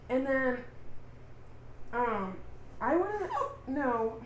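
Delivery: hiccuping mid-sentence; hiccups. Real, not acted. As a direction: hiccups interrupting the words. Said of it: "I'm so sorry, I have the hiccups".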